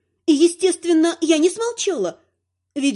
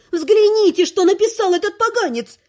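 higher, louder angry growl; louder growling fury; 6 semitones higher, 3 dB louder than usual. Acted. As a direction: repeat it, more furious. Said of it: "рычу я". (рычит ещё громче)

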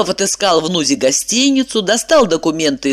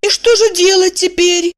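worried woman; 12 semitones higher than usual. A narrator's reading. Evdokia's voice.

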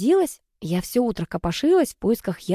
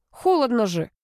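higher-pitched, mildly cross protest; angry; 4 semitones higher than usual. A narrator's reading. Brother protesting the cold water, mildly angry. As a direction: complain with a touch of anger. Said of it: "рассердился Рома".

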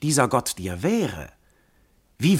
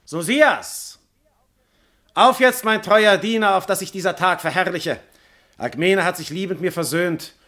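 much higher, louder, exultant; joyful call; 7 semitones higher, 3 dB louder than usual. Acted. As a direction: summon the servant in triumph. Jupiter calls his servant joyfully.

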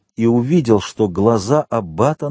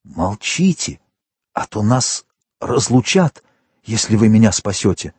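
put-on faint dying old man. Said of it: "пролепетал умирающий".

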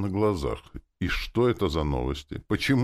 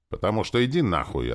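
higher, louder stubborn retort; cutting refusal; 7 semitones higher, 5 dB louder than usual. A narrator's reading. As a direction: cut him off stubbornly. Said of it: "отрезала упрямая чертовка".

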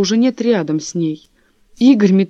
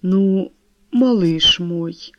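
slow, lying sweet talk; false voice; much slower than usual. A narrator's reading. Husband lying to his wife, slow fake tenderness. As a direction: coax her falsely, drawn out. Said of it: "лживым голосом начал Игорь".

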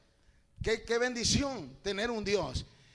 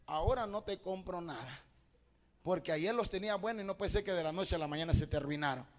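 lightly voiced grandmother, low and soft; abuela negándose; 4 semitones lower, 5 dB quieter, faster than usual. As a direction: turn the child down in a low, soft voice. Abuela le niega los zapatos. (abuela en tono bajo, apenas imitada)

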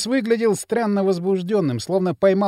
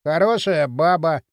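unhurried, weighty verdict; slow, meaningful. A narrator's reading. Porshen vouching for the woman, slow and meaningful. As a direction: say it slowly with hidden meaning. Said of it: "не спеша и со значением".

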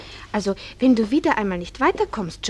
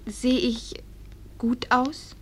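shy whisper; 6 dB quieter, much slower than usual. Acted. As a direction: whisper the question shyly. Shy question to mother.

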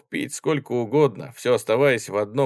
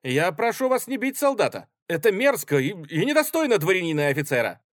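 put-on high, raised young voice full of outrage; indignant protest; 9 semitones higher, 4 dB louder than usual. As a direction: stand up for the soldier. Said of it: "полный искреннего возмущения голос". (юноша возмущённо заступается за солдата)

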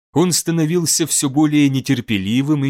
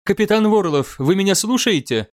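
admiral's voice; 6 semitones higher than usual. Acted. Admiral calls captain over vox.

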